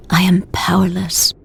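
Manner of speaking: hushed, defeated whisper; sinking admission; whispered despair. Acted. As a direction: let the words die into a breath. Admitting defeat, voice drops.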